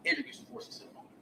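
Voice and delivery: soft, half-whispered confession; hushed admission. Retold or imitated. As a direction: drop to a near whisper. Pause before a painful admission.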